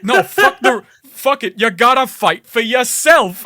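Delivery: high, loud mock rallying shout; fumbling, hammed-up call to fight; dumbass hype speech. Retelling a game hero hyping the revolution, loud dumbass rallying. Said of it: "just hyping up the revolution".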